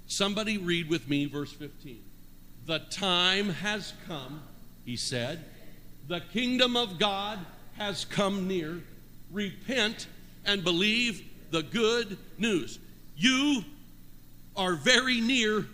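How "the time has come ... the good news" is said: slow, measured reading aloud; slow scripture reading. Acted. Pastor reading the verse with the church, slow. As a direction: read it slowly, each word weighed.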